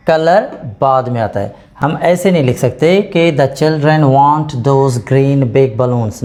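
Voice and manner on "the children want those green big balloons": slow, deliberate sentence with green before big, shown as a mistake; slow wrong example. Shown as a demonstration. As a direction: read it out as the wrong version. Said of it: "नहीं, order हमें correct रखना है".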